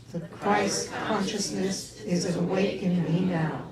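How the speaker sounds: slow, drawn-out chanted affirmation; group affirmation. Shown as a demonstration. Congregation repeating the affirmation after the minister, slow and chanted. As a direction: stretch every word like a mantra. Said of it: "Can you say that with me".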